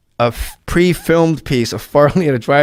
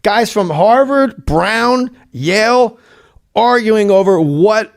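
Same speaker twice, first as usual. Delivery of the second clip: mocking list; 5 semitones higher, slower than usual. Real, not acted. Mocking the Ivy League writers.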